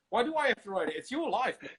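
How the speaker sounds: loud, high comic exasperation; exasperated mock squawk; high-pitched protest. Acted argument with Schwarzenegger.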